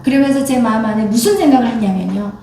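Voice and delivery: ordinary talk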